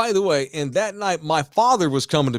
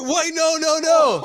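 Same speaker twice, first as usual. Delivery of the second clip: high-pitched frantic protest; acted panicky refusal; mock panic; 12 semitones higher, 4 dB louder, slower than usual. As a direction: plead in hammed-up alarm. Acts panicking at dad's joke.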